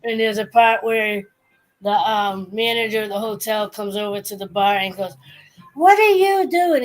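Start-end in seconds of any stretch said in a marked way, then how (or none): 5.7-6.8 high, loud mock scolding; raised-voice imitation of a cross boss; imitated yelling. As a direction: play a manager about to yell. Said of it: "getting ready to yell at him".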